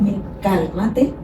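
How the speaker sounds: slow, gentle calming words; calm soothing voice. Shown as a demonstration. Parent demonstrating how to calm a child, slow and soothing. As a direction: talk a tantrum down slowly and softly. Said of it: "yo tengo que calmarme y respirar profundo".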